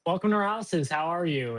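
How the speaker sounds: high, chipper shop greeting; customer service voice. Retold or imitated. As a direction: greet customers with fake cheer. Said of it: "my customer service voice".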